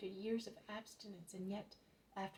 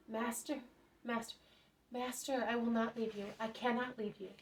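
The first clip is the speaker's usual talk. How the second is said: eager pleading; 3 semitones higher, 5 dB louder than usual. Acted. Healed leper clings to Jesus.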